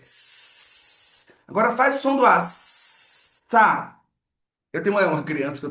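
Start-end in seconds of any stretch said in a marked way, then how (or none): 0.0-1.3 long soft hiss on "S"; sustained voiceless "S"; prolonged S. Shown as a demonstration. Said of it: "prolonga o som do S". 2.4-4.0 stretched "sa", hiss then strong vowel; joining sounds. Shown as a demonstration. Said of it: "Eu ensino a criança a juntar".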